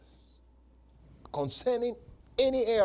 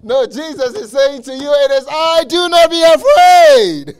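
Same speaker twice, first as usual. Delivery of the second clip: builds from raised to a full shout; rising preaching shout; 12 semitones higher, 17 dB louder than usual. Real, not acted. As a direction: climb until you are shouting the promise.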